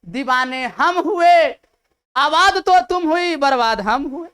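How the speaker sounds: mock-dramatic recital of a romantic couplet; lovesick status quote. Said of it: "फिर mobile ने status लगाएगा".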